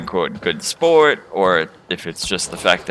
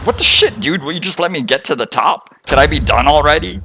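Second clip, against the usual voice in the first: high-pitched mock exasperation; exasperated complaint; 8 semitones higher, 3 dB louder than usual. Player griping at an ever-growing kill count, mock exasperated. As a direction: protest in disbelief, pitch jumping up.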